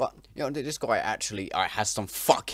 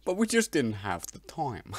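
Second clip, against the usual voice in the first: mocking his British accent; 4 semitones higher than usual. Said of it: "Is that supposed to be fucking British?".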